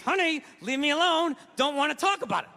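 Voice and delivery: jaw clenched, words squeezed out; "Honey, leave me alone" said through teeth; through gritted teeth. Retold or imitated. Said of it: "Talking through my teeth".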